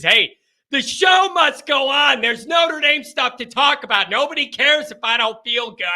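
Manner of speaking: rally yourself to soldier on though sick; rousing defiance. Real, not acted. Mock-heroic rallying cry despite sickness.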